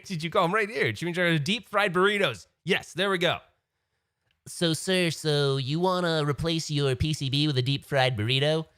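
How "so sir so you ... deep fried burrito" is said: mock salesman. Mock seller answering his request.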